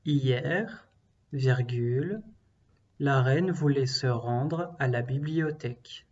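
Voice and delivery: slow, clear dictation voice; dictating. Shown as a demonstration. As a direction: repeat the sentence for pupils. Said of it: "Je répète".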